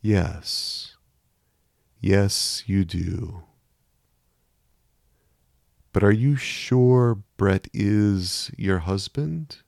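soft and gentle, slow questioning; a calm inner voice probing gently; low gentle voice. A narrator's reading. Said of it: "low and soft, almost gentle".

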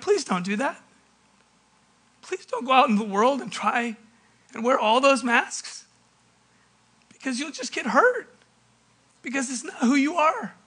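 softly voiced pleading dad; a touch of soft, fatherly pleading. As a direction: gently beg your child not to go. Father pleading with departing son.

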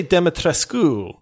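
Dimitrescu with the last U voiced as "oo"; U pronounced. Shown as a demonstration. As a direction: end Dimitrescu on an audible "-skoo". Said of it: "she actually pronounced the U".

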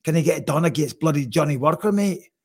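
a shaky attempt at a Scottish accent, mate tacked on; bad Scottish accent. Host asks about Paul Craig in a failed Scottish accent. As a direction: ham up a Scottish brogue that slips away at the end. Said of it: "I used to be a good Scottish".

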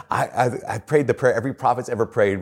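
lightly imitated Tennessee accent. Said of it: "he had this accent".

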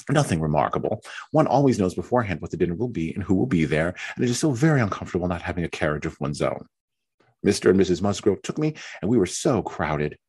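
fretful self-pitying young wife, lightly voiced; Mary's complaining voice. Mary complains to Anne about being left alone, lightly whiny.

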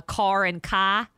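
CAR with its R, then KA without; car, then "kah"; both pronunciations. Retold or imitated. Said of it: "called us about the East Coast".

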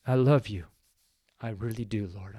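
almost no voice left, choked with tears; tearful, very soft. Real, not acted. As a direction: let the tears nearly swallow the words. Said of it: "Kind of an emotional guy here".

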